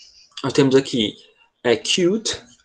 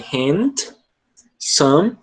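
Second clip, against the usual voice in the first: split into syllables. Shown as a demonstration. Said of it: "esse M ele conta como sílaba".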